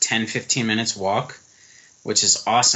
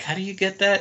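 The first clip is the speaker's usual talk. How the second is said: much higher, mock-baffled question; mock puzzlement; 9 semitones higher than usual. American abroad seeing Cuban goods, mock baffled.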